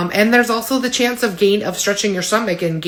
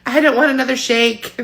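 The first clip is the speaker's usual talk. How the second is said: mock whine; 6 semitones higher, 3 dB louder than usual. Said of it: "you'll be listening to me like".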